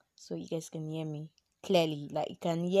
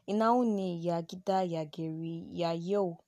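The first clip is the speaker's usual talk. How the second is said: Yoruba accent. Shown as a demonstration. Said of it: "you guys can still hear, like, my Yoruba accent coming".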